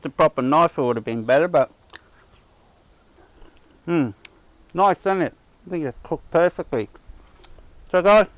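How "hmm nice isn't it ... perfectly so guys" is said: chewing while talking; mouth full. Real, not acted. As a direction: talk through a mouthful of food. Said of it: "excuse me while I'm chewing".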